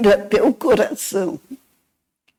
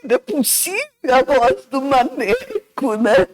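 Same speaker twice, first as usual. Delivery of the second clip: crying; 3 semitones higher, faster than usual. Retold or imitated. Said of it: "E eu chorava".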